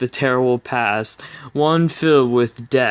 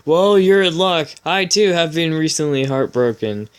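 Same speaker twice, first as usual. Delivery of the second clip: hammed-up hero; 4 semitones higher than usual. Hero's smooth line read aloud.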